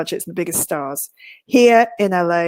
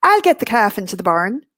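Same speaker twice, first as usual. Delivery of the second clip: put-on light Irish accent on the maid's line. Irish maid reassuring Abraham Lincoln, light Irish accent. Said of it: "I'm allowed to do an Irish accent".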